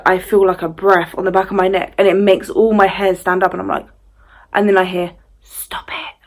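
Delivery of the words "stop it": very soft eerie whisper; whispered woman's voice. Retold or imitated. Unseen woman speaking in her ear, soft whisper. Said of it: "like, a woman's voice".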